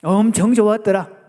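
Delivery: loud Chungcheong exclamation; Chungcheong dialect. Shown as a demonstration. Preacher asks for Chungcheong version, loud Chungcheong delivery. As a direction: stress the first word loudly in Chungcheong dialect. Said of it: "충청도는 뭐라고 그러죠?".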